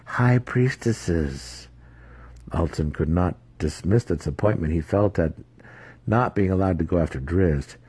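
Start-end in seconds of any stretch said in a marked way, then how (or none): 0.0-1.7 higher, very slow, drawn-out matron voice; a hint of a scheming matriarch, slowly savoring the words; voiced matron. Dark elf matron promising her agent, slow and drawn out.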